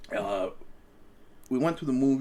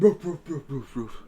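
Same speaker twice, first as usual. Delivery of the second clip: barking imitation. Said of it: "the dog started".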